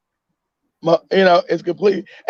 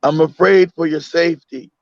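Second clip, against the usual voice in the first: tender mother; 4 semitones lower than usual. Retold or imitated. Mother voiced tenderly to child.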